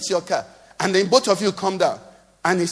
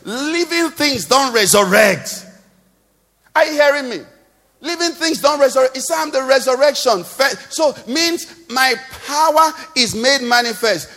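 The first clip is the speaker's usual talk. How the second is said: raised-pitch, insistent pulpit delivery; emphatic preaching; 5 semitones higher than usual. Real, not acted. Preacher urging the congregation to trust God, emphatic. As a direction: drive each declaration home to the congregation.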